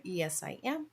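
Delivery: talking through a mouthful; words round a bite of food; mouth full. Real, not acted. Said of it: "Sorry, I have food in my mouth".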